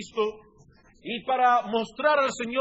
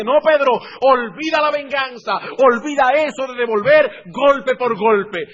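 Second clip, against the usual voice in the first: firm rebuke; 4 semitones higher, 10 dB louder than usual. Acted. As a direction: stop Pedro in his tracks. Jesus rebukes Pedro loudly.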